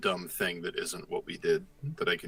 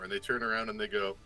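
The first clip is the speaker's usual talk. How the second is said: usual speaking voice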